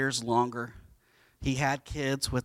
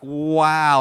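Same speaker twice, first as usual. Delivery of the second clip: loud, drawn-out wow; stunned admiration, played big; smitten wow; 8 dB louder than usual. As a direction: act out being awestruck, loudly. Retold reaction on seeing her.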